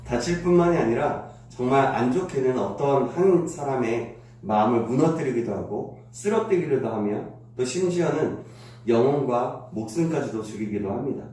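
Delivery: ordinary delivery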